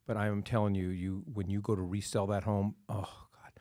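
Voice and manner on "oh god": breathy whispered oh, God, much softer; whispered dread. Real, not acted. Host dreading the resale of a home under power lines, whispering. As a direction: let it drop into a dreading whisper.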